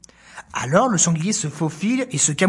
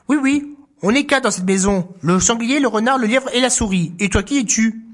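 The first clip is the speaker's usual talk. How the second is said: higher little answer; mouse voice; 4 semitones higher than usual. Acted. Animals answering the bear, higher. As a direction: answer the big guest.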